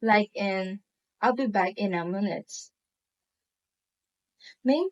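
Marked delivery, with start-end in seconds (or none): 1.2-2.5 quick statement, pitch lowered toward "minute"; certain, final fall to "minute". Shown as a demonstration. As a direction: let "minute" drop with finality. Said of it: "when we lower our pitch, it shows certainty".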